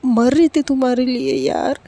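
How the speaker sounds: a lightly voiced girl gushing; excited missing friend. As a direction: pour out how much you missed her. Girl tells friend she missed her.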